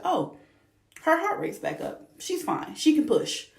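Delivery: high, bright mock doctor's relief; relieved doctor. Mom quoting the doctors about the baby's heart rate, high and relieved. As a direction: pitch way up like staff cheering good news. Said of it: "And they was like".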